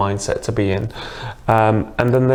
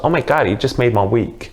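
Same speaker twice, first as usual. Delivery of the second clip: put-on woman's delighted reply with a touch of New York accent; imitated New York accent. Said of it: "exactly in that accent".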